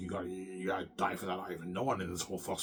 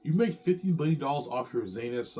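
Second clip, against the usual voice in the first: put-on amazed girl; 5 semitones higher, 5 dB louder than usual.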